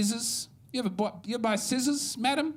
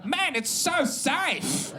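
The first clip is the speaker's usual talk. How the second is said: mock South African; 7 semitones higher, much slower than usual. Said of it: "they'll go".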